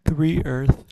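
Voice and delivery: words stretched through a yawn; speaking mid-yawn. Real, not acted. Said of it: "just yawned into the microphone".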